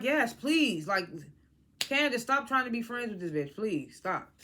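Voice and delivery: fed-up, emphatic imploring; exasperated plea. Retold or imitated. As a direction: plead with her to give it up. Acted plea to Candace to stop.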